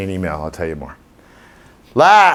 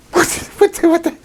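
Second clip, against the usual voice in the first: dog confused by a sudden bang; startled dog. Retold or imitated. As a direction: play the dog jolted mid-dig.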